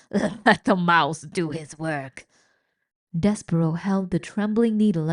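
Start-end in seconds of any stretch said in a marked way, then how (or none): 0.1-2.3 slow, savouring rat voice; sly old rat. Acted. Old rat telling rats to let mouse work. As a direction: draw it out with relish.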